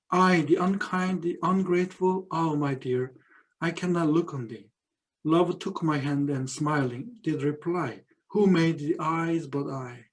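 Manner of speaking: slow, measured poetry recital; poem reading. Acted. Teacher reading Herbert's poem to the class, slow recital. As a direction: let each line of verse linger.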